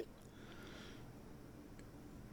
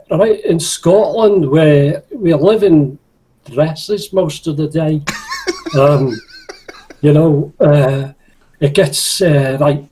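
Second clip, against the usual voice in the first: slow, faintly Scottish voice; lightly put-on Scottish drawl; trying a Scottish accent on request, barely Scottish; slower than usual. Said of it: "I can do Jockinese".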